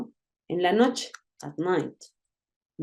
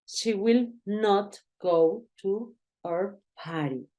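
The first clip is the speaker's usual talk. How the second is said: slow model sentence; slower than usual. Shown as a demonstration. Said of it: "puedes decir will not o puedes decir won't".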